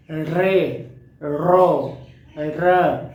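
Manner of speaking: slow clear रे रो र with tapped tongue; each syllable isolated and deliberate; demo syllables. Shown as a demonstration. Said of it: "अब एक बार यहाँ देखिए".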